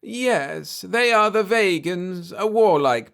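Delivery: alien soothing a frightened man. A narrator's reading. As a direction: reassure him gently, an odd alien calm. Alien explains.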